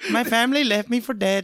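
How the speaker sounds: put-on Indian accent slipping into Chinese; accent drifting toward Chinese. Character telling his backstory, wobbly Chinese-leaning accent. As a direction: let the Asian accent wander off course. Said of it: "He's going Chinese".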